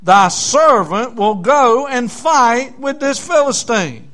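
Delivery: slow, emphatic Bible reading; scripture reading. Acted. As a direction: read the verse out with slow preacher's weight. Reads scripture to congregation.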